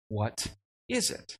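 slow, wondering "What is it?" with a lift on "is"; puzzled question. A narrator's reading. Israelites staring at strange flakes, slowly wondering "What is it?". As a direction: ask "What is it?" slowly, drawn out in quiet wonder. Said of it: "said to one another".

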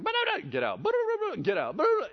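high babbling ba-da-da with get out; mock arguing back and forth. Jesus and the demon arguing, hammed-up bickering. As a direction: bicker in gibberish. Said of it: "he's like".

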